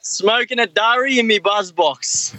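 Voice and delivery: slow, drawn-out Aussie slang; laconic outback drawl. Shown as a demonstration. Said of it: "See if you guys can guess".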